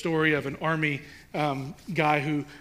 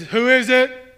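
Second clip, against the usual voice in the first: higher, louder bossy officer bark; military authoritative voice; 8 semitones higher, 11 dB louder, slower than usual. Retold or imitated. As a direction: puff up like a stern colonel. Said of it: "trying to boister up a military authoritative voice".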